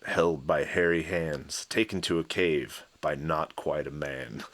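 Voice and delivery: slow, deliberate lyric recital; lyric reading. Acted. Reading crude song lyrics to co-host, slow recital. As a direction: read it out slowly, line by line.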